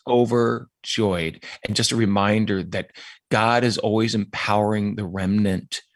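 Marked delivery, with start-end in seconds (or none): 0.1-1.4 Overjoyed drawn out slowly and savoured; slow emphatic. Real, not acted. Guest recalling his reaction, slow and savouring. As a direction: let Overjoyed linger, stretched word. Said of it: "That was my response".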